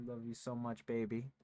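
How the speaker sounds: soft cooing to a pet; sweet nothings. Real, not acted. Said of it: "cooing to cat".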